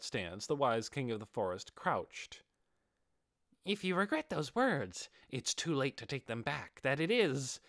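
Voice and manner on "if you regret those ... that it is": high, bright-eyed beast voice with a quaint "that I don't"; squeaky hamster beast. Acted. Giant hamster taunting the armoured warrior before the fight, high and eager. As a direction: play the proud giant hamster itching to fight.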